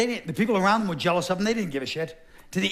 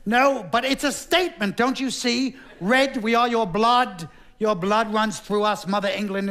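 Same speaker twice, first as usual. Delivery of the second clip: grandiose king; 4 semitones higher than usual. Acted.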